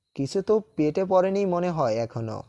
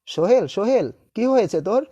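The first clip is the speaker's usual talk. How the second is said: louder, urgent worried calling; alarmed concern; 4 semitones higher, 5 dB louder than usual. Acted. Friend asking Sohel why he is crying, alarmed. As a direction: call out to a friend in sudden worry.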